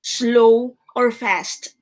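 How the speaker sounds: very slow, each word spaced out; teacher stressing the keywords slowly; slow, stressed keywords. Shown as a demonstration. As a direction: drag out slow or fast for the class to note.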